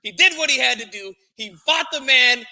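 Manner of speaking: riled up and hammering the point home; worked up. Real, not acted. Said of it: "now I'm all worked up".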